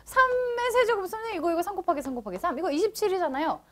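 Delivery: lightly voiced pupil brushing off the warning; imitated protesting student. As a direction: play a student insisting they know better. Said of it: "라고 얘기해놓고서는".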